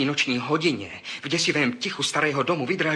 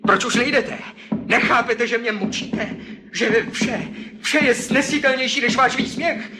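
frantic screaming; 10 semitones higher than usual. Acted. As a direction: scream at them, unhinged. Šílený výbuch vraha. (šílený křik, stále vyšší)

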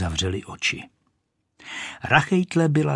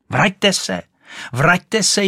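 high, loud shriek after the duck; the rocket shrieks after the departing duck to come back; 10 semitones higher, 5 dB louder, slower than usual. Acted. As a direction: shriek it higher and louder. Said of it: "ječela Rachejtle".

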